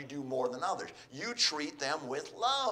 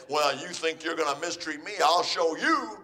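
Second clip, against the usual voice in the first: acted threat, rising louder at the end; mock defiance; 4 dB louder than usual. Wronged spouse threatening to retaliate, defiant. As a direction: build to a mock-indignant challenge.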